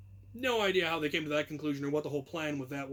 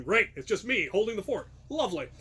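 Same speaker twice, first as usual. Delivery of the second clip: sarcastic. Retold or imitated. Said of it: "so they're going".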